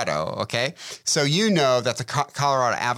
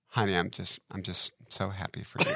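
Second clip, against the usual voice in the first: mock heartfelt; 6 semitones lower, 5 dB quieter than usual. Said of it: "she looks at me and goes".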